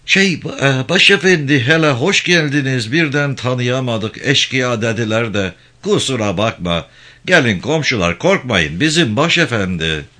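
flustered, high-pitched welcome; cringing imam. Acted. Imam placates the gendarme chief, flustered and obsequious.

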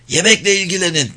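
sharp high shout at the women. Acted. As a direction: bark the order across the room. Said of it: "diye bağırdı onlara yaşlı adam".

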